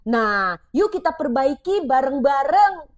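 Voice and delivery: gentle parent. Shown as a demonstration. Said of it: "kamu bisa ganti dengan kayak gini".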